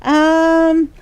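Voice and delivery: the new friend calling again, mock insistent; pushy new friend. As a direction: press her like an overeager new friend. New friend pressing by phone.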